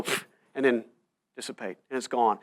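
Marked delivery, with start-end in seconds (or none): 0.0-0.3 spray sound. Shown as a demonstration. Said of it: "it'd go".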